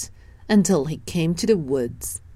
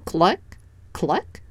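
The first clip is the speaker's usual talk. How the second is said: hen clucking. Acted. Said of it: "said the hen".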